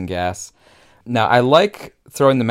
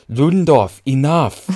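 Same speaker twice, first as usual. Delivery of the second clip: put-on stern German-accented order, higher and louder; German accent command; 6 semitones higher, 6 dB louder, slower than usual. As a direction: cut him off sharply in a German accent. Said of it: "that's a perfect, like, German accent kind of line".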